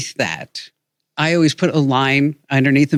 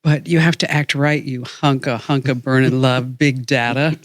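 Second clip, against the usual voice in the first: Leslie's sexy voice. Retold or imitated. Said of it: "in a completely erotic, sexy voice".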